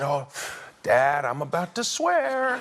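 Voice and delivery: slow, mock-tearful warning; tearful child, imitated. Son warning his dad while fishing, imitated tearful voice. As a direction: play a little boy holding back tears. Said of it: "He starts to cry".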